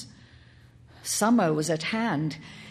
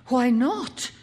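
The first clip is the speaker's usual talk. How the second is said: louder, higher, emphatic challenge; heavy, opposed; 5 semitones higher, 5 dB louder than usual. A narrator's reading. Mother opposed by her son, heavy insistence. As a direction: demand it with force. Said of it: "her voice becoming heavy when she was opposed".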